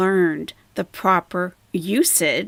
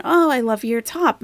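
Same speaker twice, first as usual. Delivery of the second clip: lightly gushing, pitched up; mock-gushing praise; example compliment; 5 semitones higher than usual. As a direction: pay an admiring compliment, pretend. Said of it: "When you compliment someone".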